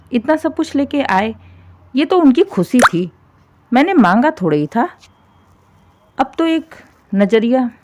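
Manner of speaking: a hint of a shrill-tongued saas, indignant; nagging mother-in-law. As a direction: play the grumbling mother-in-law defending her demand. Narrator voices the mother-in-law.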